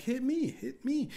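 high-pitched, excited crowd imitation; eager mock cries. Concertgoers begging the T-shirt cannon, eager mock cries.

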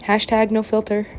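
high, loud, bubbly yay; mock excited cheer. Cheering over an unedited selfie, mock excited. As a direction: squeal it like a happy selfie. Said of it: "And I'm like".

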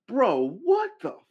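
high, laughing what the fuck; shocked disbelief. Real, not acted. Reacting to a rapper's PR statement with laughing shock.

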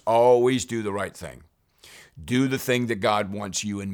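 loud repeated charge; forceful, insistent urging; emphatic exhortation. Real, not acted. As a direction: press the point on the congregation.

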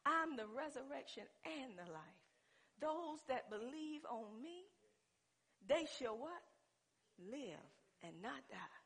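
soft, measured quotation; quiet, unhurried assurance; calm. Acted. Preacher voicing Jesus promising life to believers, calm and soft. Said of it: "I believe Jesus said calmly".

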